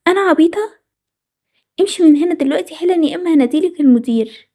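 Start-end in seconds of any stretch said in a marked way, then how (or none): 0.1-0.8 indignant echo. Acted. Indignant retort in quarrel.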